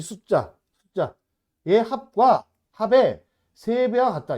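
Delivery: slow, emphatic reading aloud. Shown as a demonstration. Teacher rereading the key condition to students, slowly and emphatically. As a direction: spell out each phrase slowly and firmly. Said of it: "다시 천천히 읽으면서".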